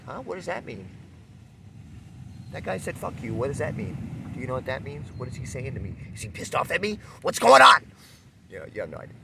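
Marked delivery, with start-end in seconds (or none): 0.0-7.8 high, bewildered questions, ending in a loud burst; puzzled, rising higher until the last question bursts out; confused. Retold or imitated. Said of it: "you're like".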